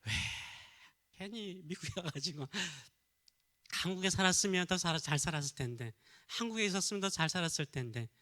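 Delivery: mock griping with regret; resentful grumbling. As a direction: imitate someone complaining to themselves. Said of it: "불평하고 원망하면서". (투덜대며 원망하는 흉내)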